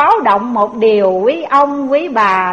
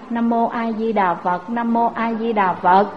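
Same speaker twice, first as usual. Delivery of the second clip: put-on old woman praying. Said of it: "bà Tám mới chắp tay lại".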